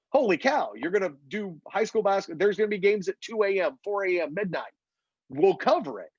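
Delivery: mock amazement, settling into agreement; amazed reaction. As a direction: lightly act out an impressed TV network. Voices ESPN3 reacting to the idea.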